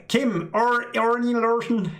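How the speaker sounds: put-on English accent. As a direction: imitate how an Englishman mangles "Kim Arne Larsen". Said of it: "I have heard, uh, Englishmen say".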